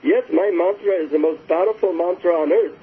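lightly imitated Indian guru accent; deep Indian accent. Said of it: "in his deep Indian accent".

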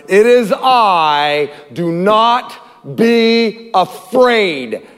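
slow, calm reassurance; slow reassuring. Acted. Jesus calming his frightened disciples, slow and gentle. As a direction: draw out each word gently. Preacher quoting Jesus slowly.

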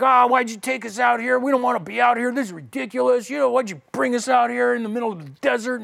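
preacher mocks the Israelites griping to God; whiny Israelites. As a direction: play the grumbling crowd, hammed-up. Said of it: "They're like".

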